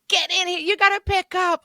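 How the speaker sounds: high, brisk kitchen shout; kitchen holler. Retold or imitated. Cook hollering at waiter to pick up, kitchen holler. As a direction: bark the order across the kitchen. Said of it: "that kitchen vibe of".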